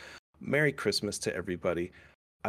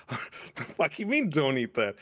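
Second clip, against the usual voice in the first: much higher, slow, incredulous squeal; mock outraged kid; 4 semitones higher than usual. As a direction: ham up the outraged child asking why not.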